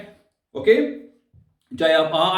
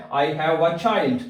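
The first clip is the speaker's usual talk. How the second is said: slow, deliberate English; slow translation; much slower than usual. Shown as a demonstration. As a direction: read the meaning slowly for learners. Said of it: "मेरा एक बच्चा है". (धीमा अनुवाद)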